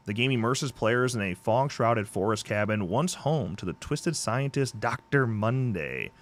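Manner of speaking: lightly dramatic game promo read; blurb read. Acted. Host reading a horror game's blurb to listeners, promo read. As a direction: read it out like trailer copy.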